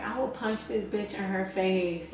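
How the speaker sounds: retold threat drawn out slowly; imitated girl's threat. Imitating the girl on the train threatening to punch, slow mock threat. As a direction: stretch out an imitated threat, without raising the volume. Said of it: "the girl was just getting loud".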